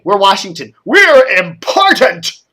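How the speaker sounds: slow, puffed-up sarcastic boast; mock self-importance. Host mocking Washington's self-importance on air, slow sarcastic boast. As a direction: stretch "We're important" out slowly like a pompous bigshot.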